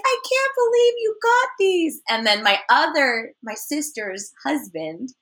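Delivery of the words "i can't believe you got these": exasperated disbelief. Retold or imitated. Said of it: "she's like".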